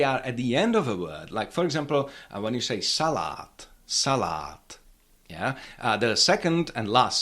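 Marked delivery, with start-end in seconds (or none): 2.8-4.6 "salad" stressed on SA, long final a held unstressed; stress on first syllable. Shown as a demonstration. Teacher showing learners Czech "salad", first-syllable stress. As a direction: hit SA in "salad", then a long, falling A. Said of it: "So we have to say salad".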